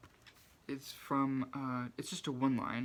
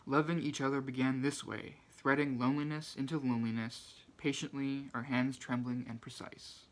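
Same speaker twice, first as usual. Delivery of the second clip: measured recitation of a short poem; gently projected poetry reading. Acted. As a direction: read the verse out clearly, phrase by phrase.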